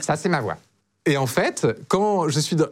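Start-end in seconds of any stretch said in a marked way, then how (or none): 0.0-0.6 less pleasant, more nasal natural voice; nasal real voice. Shown as a demonstration. Man admitting his real voice is less agreeable, nasal. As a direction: let the untrained nasal voice out. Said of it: "Elle est plus nasillarde".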